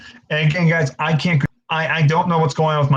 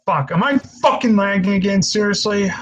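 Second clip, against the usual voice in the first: frustrated outburst; 4 semitones higher than usual. Real, not acted. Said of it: "I'm getting angry".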